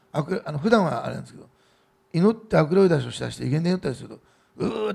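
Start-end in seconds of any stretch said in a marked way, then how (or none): 4.6-4.9 high, restrained growl of effort; imitated straining groan. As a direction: mimic a possessed person heaving with force. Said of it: "って言って、こう、すごい力でね". (力むうなり声の真似)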